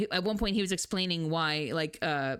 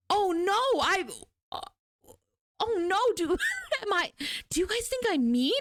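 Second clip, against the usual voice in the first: a stoic man suddenly worried he seems mean; mock-alarmed old man, voice pitched up; flustered professor; 9 semitones higher than usual. Professor alarmed at being thought mean.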